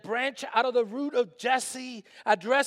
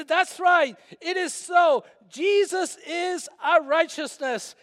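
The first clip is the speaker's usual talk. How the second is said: louder, higher, slow affirmation; emphatic affirmation; 6 semitones higher, 6 dB louder, slower than usual. Shown as a demonstration. Pastor showing the congregation a loud affirmation. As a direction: declare it with conviction. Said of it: "Or you can say".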